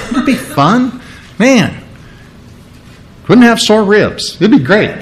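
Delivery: chuckling through the words; amused giggly aside; laughing. Real, not acted. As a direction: laugh while you say it. Laughing at rapture joke.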